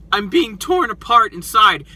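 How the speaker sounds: lightly voiced tough guy; a hint of a tough guy act. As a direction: put on a mild tough front. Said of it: "like, his tough guy voice".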